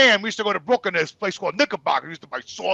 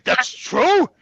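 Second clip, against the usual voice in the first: retold disbelief; 6 semitones higher, 3 dB louder than usual. Disbelief at mother's confession.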